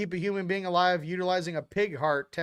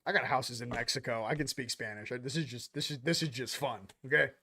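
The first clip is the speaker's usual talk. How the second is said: low, hushed brag; 5 semitones lower, 5 dB quieter than usual. Retold or imitated. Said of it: "You're like".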